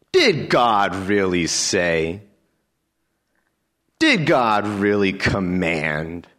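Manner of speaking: very slow, sly question stressing did; serpent's doubt. Acted. Preacher replaying the serpent's question, slow and sly. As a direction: let the doubt creep in slowly. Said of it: "That's doubt".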